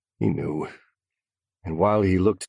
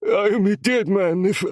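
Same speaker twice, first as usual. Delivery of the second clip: frightened captive; 14 semitones higher, 6 dB louder than usual. A narrator's reading. Captive explains fear.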